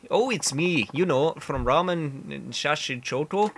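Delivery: badly faked Canadian voice; game character in shaky-fake Canadian; awful Canadian accent. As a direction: put on an amateur Canadian accent. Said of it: "I know the accent is awful".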